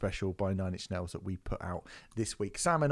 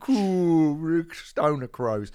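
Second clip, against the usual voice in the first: mock Cockney; 5 semitones higher, 7 dB louder, much slower than usual.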